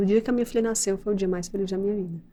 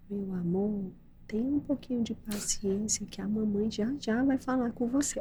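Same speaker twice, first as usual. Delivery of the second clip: soft whisper, much quieter; whispered gently; 2 semitones higher, 8 dB quieter than usual. Retold or imitated. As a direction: whisper it tenderly to calm her. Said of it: "ela falou tão baixinho".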